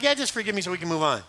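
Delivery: quick, dismissive mock apology; nonchalant. Saul brushing off his sin to Samuel, nonchalant. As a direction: rattle it off as if it hardly matters. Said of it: "He's got this nonchalant, non-caring attitude".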